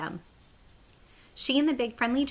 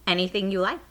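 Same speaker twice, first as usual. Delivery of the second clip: proud; 5 dB louder than usual. Acted. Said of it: "the B F G said proudly".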